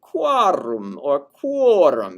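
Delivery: slow, low and falling. Shown as a demonstration. Teacher demonstrating falling relative genitive. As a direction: let the words sink down. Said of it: "not only a lower pitch, but it's also falling".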